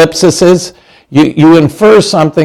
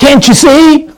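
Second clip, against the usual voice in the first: much higher, exasperated mock jab; sarcastic and impatient; 10 semitones higher than usual. Blind man sarcastically chiding Jesus, higher exasperated mockery. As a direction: scoff it like it's obvious. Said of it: "if you're really sarcastic and impatient".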